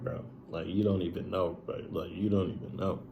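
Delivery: soft, broken near whisper; choked near whisper. Retold or imitated. Hugged by a stranger, answering in a broken near whisper.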